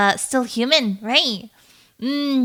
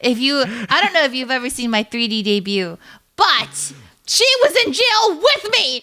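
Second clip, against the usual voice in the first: laughing mock outrage; 10 semitones higher, 3 dB louder than usual. Mock outrage defending herself, laughing.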